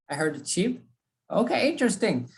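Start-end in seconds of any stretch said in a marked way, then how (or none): 0.5-0.8 "sheep" begun with a ch, like "cheap"; mispronounced sheep. Retold or imitated. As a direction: put a t before the sh of "sheep". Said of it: "do not use the T".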